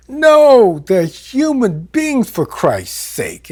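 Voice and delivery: mock yell of outrage; retold yelling. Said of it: "I was just yelling at him".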